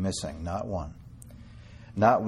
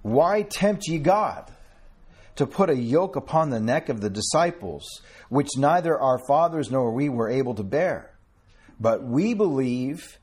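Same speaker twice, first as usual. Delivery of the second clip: forceful scripture reading; 3 semitones higher than usual. Acted. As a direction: read it out like thunder from the pulpit. Preacher reads Acts aloud with force.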